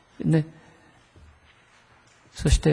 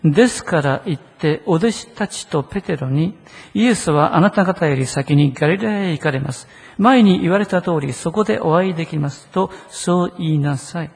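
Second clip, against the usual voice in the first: reading scripture aloud. Shown as a demonstration. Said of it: "一緒に声をして読んでください".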